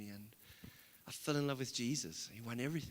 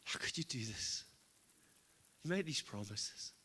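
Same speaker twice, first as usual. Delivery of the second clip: anguished plea to God; slower than usual. Retold or imitated. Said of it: "And I'm like".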